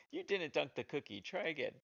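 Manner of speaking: high, hammed-up game narrator voice; big cheesy narrator. Game maker mimicking the game's narration, big cheesy voice. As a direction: narrate the failed try in big cheesy style. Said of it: "my big cheesy voice narrating".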